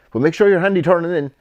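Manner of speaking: high, loud mock trainer voice calling a final order; hammed-up high shout of a fussy trainer's instruction; imitating the trainer. Trainer's last-minute order, voiced.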